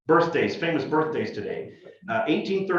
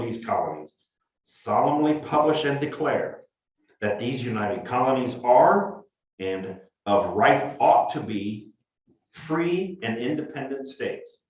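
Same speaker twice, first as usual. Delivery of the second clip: formal reading. Acted. Reads the Declaration aloud.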